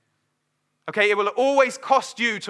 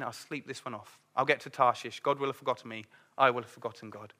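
drowsy Jonah; 7 semitones lower, 8 dB quieter, faster than usual. Retold or imitated. Voicing Jonah asleep in boat.

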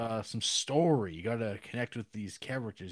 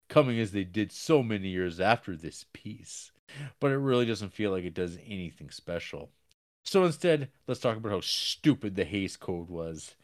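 reading a review. Acted. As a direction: read the review aloud with gusto. Reads out a review.

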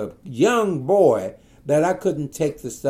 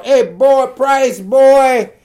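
calling out; 10 semitones higher, 10 dB louder, much slower than usual. Retold or imitated. Boss calling the father.

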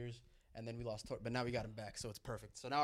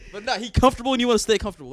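laughing; 9 semitones higher, 11 dB louder, faster than usual. Real, not acted. Laughing after mock quote.

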